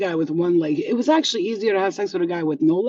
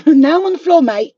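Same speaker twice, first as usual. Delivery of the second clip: louder laughing repeat; 9 semitones higher, 12 dB louder than usual. Pretend. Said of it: "repeats line louder".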